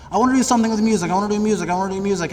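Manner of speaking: put-on a kid pleading he wants music, fading off; eager kid. Young self pleading with teacher, excited and eager.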